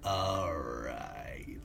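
soft, low whispered turtle reply. Acted. Turtle answering the player in a whisper. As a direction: breathe it out, barely voiced.

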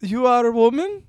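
put-on Japanese mom accent. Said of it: "I don't know what accent this is".

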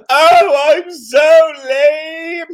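high, loud, drawn-out mock wail; wailing monster. Dad voicing a self-pitying monster to his child, melodramatic wail. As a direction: bawl it out in hammed-up self-pity.

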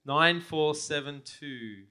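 numbers drawn out slowly; slow announcement. Real, not acted. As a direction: spell each number out for the room. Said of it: "repeats slowly for crowd".

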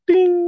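high sung-out bell ding; high "ding" like a chime. Pretend. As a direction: imitate a bell, high and ringing. Imitates a bell sound.

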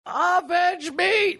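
slow, very high, hammed-up dying cry; overacted death scene. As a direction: stretch it out like a dying hero. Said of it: "the movie where he's like".

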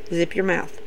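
very low, soft command; shutting him off. Retold or imitated. Randy silences an excited Matt, low hushed command. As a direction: imitate a quiet order to hush. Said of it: "Randy shuts him off".

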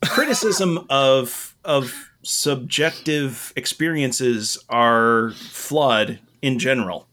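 hoarse, raspy voice; rough, scratchy throat; smoker's rasp. Real, not acted. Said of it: "I sound like I've smoked, like, seven pounds of pot".

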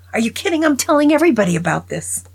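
put-on old man boasting to the priest, loud and high; excited old man. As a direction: crow the punchline gleefully. Old man's punchline.

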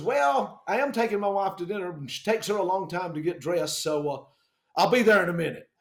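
imitated country pilot putting them off; lightly voiced country pilot. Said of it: "Country voice".

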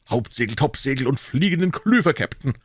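high sailor call-back; barked drill commands. A narrator's reading. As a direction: report smartly to the captain. Crew answers the captain. (gebellte Seemannsmeldung)

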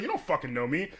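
indignant retelling of a comeback; mildly heated, reenacted retort; retold outburst. Bartender answering her accuser, retold indignation. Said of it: "So after I click, click out on it".

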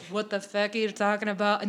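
badly faked character accent; terrible Murtaugh accent. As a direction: attempt his accent and botch it. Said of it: "that was a terrible accent".

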